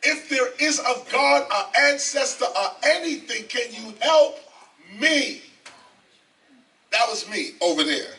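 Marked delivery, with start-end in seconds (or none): 0.0-5.4 prayer. Retold or imitated. Retold prayer for help.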